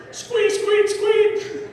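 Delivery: high squeaky toy noise; mimicking the store's squeaky pig toy; squeaky toy imitation.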